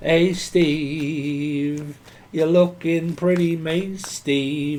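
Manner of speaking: put-on Dudley accent. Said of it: "how do you say Manchester from when you're from Dudley".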